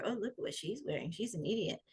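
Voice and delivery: soft, catty gossip voice; lightly voiced snide mean girl. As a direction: sneer it quietly behind her back. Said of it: "the mean girls that have these voices that go".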